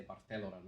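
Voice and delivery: "Barcelona" with a lisped th for the c; Castilian pronunciation. Shown as a demonstration. Friend teaches the local way, "Barcelona" lisped as Bar-thelona. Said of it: "if you gotta talk like you're".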